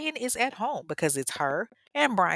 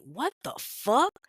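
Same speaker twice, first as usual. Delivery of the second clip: mock outrage; 4 semitones higher, slower than usual.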